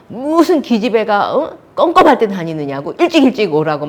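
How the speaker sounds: mock scolding, mildly heated; parental scolding. Parents to daughter out after dark, scolding. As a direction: imitate parents nagging a daughter.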